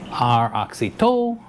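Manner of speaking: slow AHK-see-TOE for Oxytow, lifting on TOE; alternative pronunciation. Retold or imitated. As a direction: offer Oxytow as another option, stretching the end. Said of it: "how do you pronounce this?".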